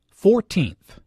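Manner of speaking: put-on "Fourteenth" with the stress on the teenth; second-syllable stress. Shown as a demonstration. Teacher modelling an ordinal number, stress on the end of "Fourteenth". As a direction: lean on the second half of "Fourteenth". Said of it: "The stress is on the second syllable".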